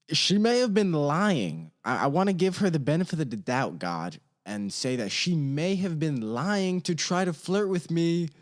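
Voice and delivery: mock prayer. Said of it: "What a prayer right there".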